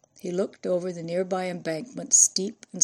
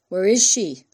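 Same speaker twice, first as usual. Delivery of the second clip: put-on Italian-British accent; 8 dB louder than usual. A narrator's reading. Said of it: "demanded with an Italian-British accent".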